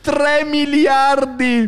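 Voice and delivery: very high, very slow squeal; mock excited auctioneer. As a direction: squeal the number out slowly. Absurd top bid. (banditore esaltato, strillato lento)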